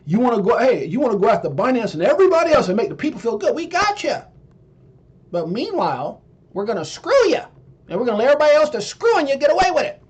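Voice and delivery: smooth, fast politician spiel; mock politician pitch, sped up. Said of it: "That was my, um, politician voice".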